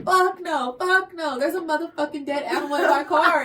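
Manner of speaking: loud, high imitation of a panicking friend; frantic panic. Friend spraying air freshener in panic, frantic yell.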